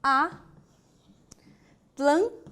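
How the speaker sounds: "Atlântico" as a, tlân, ti, co with long pauses; syllable by syllable. Shown as a demonstration. Teacher showing the mistaken split, slow detached syllables. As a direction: begin "Atlântico" on a lone "a", very slowly. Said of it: "a separação transatlântico não existe".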